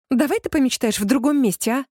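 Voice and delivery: an exasperated get-lost; irritated. Acted. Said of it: "Раздражённо заметила я".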